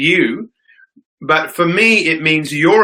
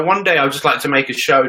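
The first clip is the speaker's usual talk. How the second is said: usual speaking voice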